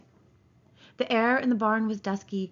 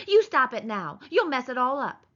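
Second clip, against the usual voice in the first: put-on louder, angry young woman; angry cry; 4 semitones higher, 5 dB louder than usual. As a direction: snap at him to stop. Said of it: "she cried angrily".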